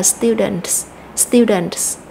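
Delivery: "students" slowly, stressed on the first syllable. Shown as a demonstration. Teacher repeats the noun for learners, first-syllable stress. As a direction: lean on the opening syllable of "students", let the ending fall. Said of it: "nhấn mạnh vào âm tiết đầu tiên".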